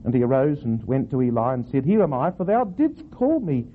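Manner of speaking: slow, deliberate Bible reading; unhurried storytelling from scripture. Shown as a demonstration. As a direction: read the verse aloud with measured weight. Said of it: "I'll read the whole verse".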